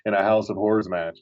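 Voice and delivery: a light Northeastern accent on "Horrors", said "Hawrors". Shown as a demonstration. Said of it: "You have to do that Northeastern accent".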